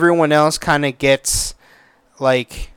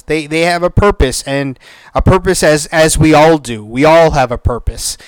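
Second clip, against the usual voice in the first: quoting Taika's speech. Retold or imitated. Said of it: "he had a line in the movie".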